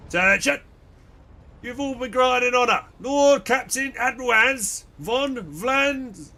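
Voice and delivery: booming herald call; loud announcer. Acted. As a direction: announce it to the whole hall.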